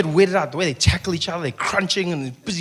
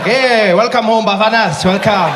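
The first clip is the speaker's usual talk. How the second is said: cheering welcome; 3 semitones higher, 5 dB louder than usual. Pretend. Fans welcoming team.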